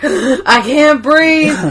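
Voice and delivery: slow gasping plea; mock panic attack. Stanley having a heart attack, slow gasping mock plea. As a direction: gasp it out, barely breathing. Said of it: "He's like, gasps".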